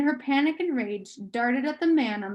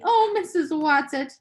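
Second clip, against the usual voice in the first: despairing call; 4 semitones higher, 5 dB louder than usual. Acted. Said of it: "Meg called despairingly".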